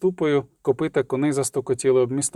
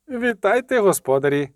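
genial call; 6 semitones higher than usual. A narrator's reading. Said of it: "крикнув благодушно, хоча й дещо ненатурально".

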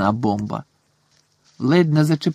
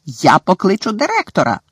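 stern shout; 6 semitones higher than usual. A narrator's reading. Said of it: "крикнула професорка МакГонегел".

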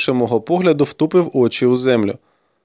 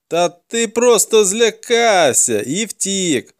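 accusing; 7 semitones higher, much slower than usual. A narrator's reading. Interrogator accuses boy of fleeing.

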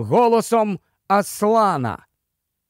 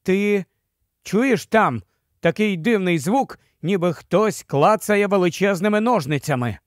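ordinary delivery, nothing marked

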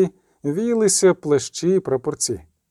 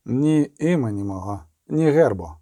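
slightly lowered witcher's grumble; grumbled; 3 semitones lower than usual. A narrator's reading. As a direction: grumble it reluctantly, a little low. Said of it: "буркнув відьмак".

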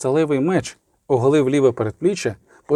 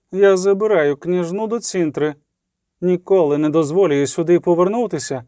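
higher, imperious orders with a stern threat; commanding queen; 5 semitones higher than usual. Acted. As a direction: royal command, cold and final. (владна королева)

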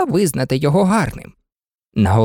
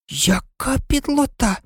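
indignant; 8 semitones higher, 4 dB quieter than usual. A narrator's reading. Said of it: "обурилася Аліса".

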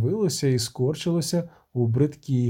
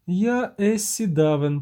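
usual speaking voice

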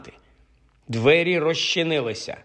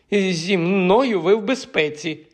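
slow and higher, a voice that quivers; trembling voice; 7 semitones higher, slower than usual. A narrator's reading. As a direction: promise safety through a shaking voice. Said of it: "тремтячим голосом проговорив він". (тремтячим голосом, повільно й вище)

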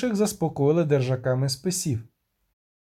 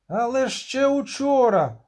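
settler protesting; 9 semitones higher than usual. Acted. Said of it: "заявив хтось із поселенців".

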